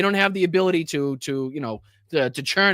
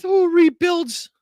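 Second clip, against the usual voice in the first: angry shout; 10 semitones higher, 3 dB louder, much slower than usual. Real, not acted. Furious rant at a guest.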